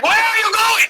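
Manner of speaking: high, squeaky, puzzled question. Acted. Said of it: "He's like".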